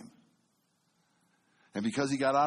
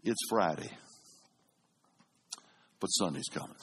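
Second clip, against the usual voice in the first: preaching refrain; 7 semitones lower than usual. Retold or imitated. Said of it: "he had one phrase".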